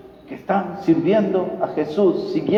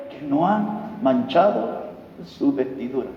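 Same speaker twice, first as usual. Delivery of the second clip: voiced believer's plea; 6 semitones higher than usual. Preacher voicing a repentant believer asking God, lightly pleading. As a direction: pray it as a longing sinner would, rising then hushed. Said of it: "si usted está en ese grupo que dice".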